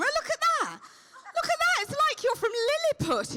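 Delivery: put-on high baby-talk coo; talking to a tiny camera in a high coo. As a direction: coo at the little camera like it's a pet.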